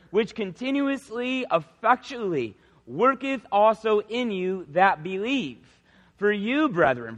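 slow, deliberate Bible reading from the pulpit; scripture reading. Acted. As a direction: read the verse out solemnly, word by word. Reads scripture aloud.

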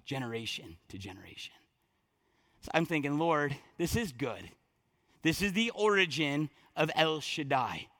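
low, soft prayerful musing; subdued, wondering murmur; hushed reverence. Acted. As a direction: speak quietly to God in awe. Awed, prayerful reflection on the name.

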